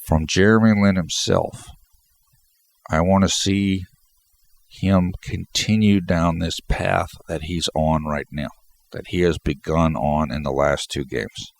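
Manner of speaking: congested, stuffy-nosed talking; blocked nose. Real, not acted. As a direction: speak through a stuffed-up nose. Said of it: "I'm just really congested right now".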